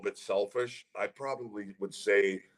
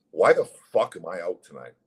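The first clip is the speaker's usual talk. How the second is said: louder, exasperated demand for an explanation; retold indignant protest; 6 dB louder than usual. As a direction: confront the coach, mildly heated. Retold protest to assistant coach.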